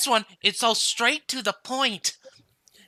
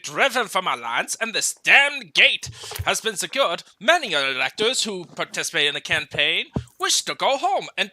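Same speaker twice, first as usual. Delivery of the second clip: put-on Scottish accent; 2 semitones lower than usual. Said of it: "trying to do a Scottish accent".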